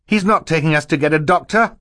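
put-on high, loud boy's protest; shouting. A narrator's reading. Klaus contradicts the villain before Mister Poe, shouting. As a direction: cry out the truth urgently. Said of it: "Klaus shouted".

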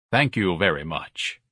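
slow, smooth thanks; smooth, pleased. Acted. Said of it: "Ignatius's voice was smooth, pleased".

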